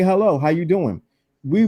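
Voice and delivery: normal talking voice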